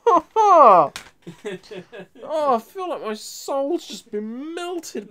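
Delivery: laughing. Real, not acted. After laughing fit.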